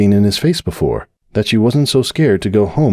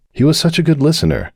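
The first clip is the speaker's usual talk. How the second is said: high, fond; fond tipsy thought; Cupcake's thought; 9 semitones higher than usual. Acted. Cupcake thinking of the bartender, high and fond.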